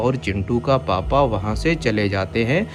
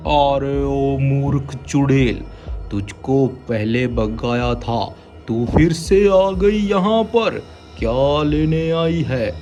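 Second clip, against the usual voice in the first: angry holy man; 3 semitones higher, slower than usual. Acted. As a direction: challenge the witch. Baba challenges witch. (ललकारता Baba)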